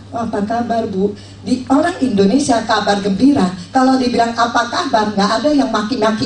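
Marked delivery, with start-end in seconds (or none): 0.1-1.1 friendly greeting. Shown as a demonstration. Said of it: "Saya akan bilang".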